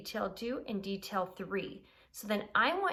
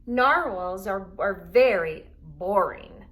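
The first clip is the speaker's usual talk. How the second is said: Unicorn scoffing; 9 dB louder than usual. A narrator's reading. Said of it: "said Unicorn".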